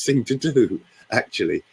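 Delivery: ordinary talk, nothing marked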